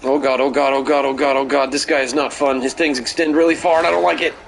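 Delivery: fast panicked repeating; anxious stammering. Real, not acted. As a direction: babble in rising panic. Chased by game enemy.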